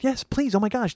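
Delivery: high, gracious insistence; acted sweet politeness; very polite. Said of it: "again, very polite".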